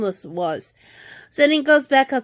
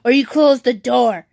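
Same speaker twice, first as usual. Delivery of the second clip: mild re-enacted scolding; retold yell; 2 semitones higher, 4 dB louder than usual. Sister retelling ultimatum to noisy brother, mildly raised mock yell. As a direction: lay down an ultimatum, only half yelling. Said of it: "I s-, yelled at him saying".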